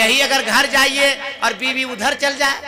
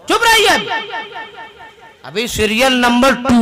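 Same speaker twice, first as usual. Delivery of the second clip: shushing wife; 3 semitones higher, 5 dB louder than usual. Acted. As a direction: shut him up from the TV. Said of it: "wife silencing husband".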